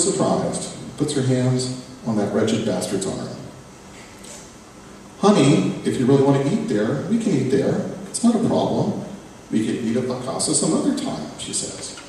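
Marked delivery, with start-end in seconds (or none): 5.2-11.3 higher, sugary mom voice, rising; smooth it over for the son; mother soothing tense dinner, lightly voiced; mother placating.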